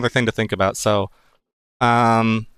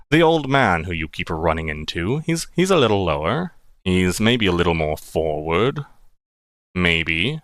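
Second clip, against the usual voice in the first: put-on gravelly old man; 5 semitones lower than usual. Shown as a demonstration. GM trying out the old man's voice, much lower. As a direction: rumble low like an old man. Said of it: "he's got that gravelly tone".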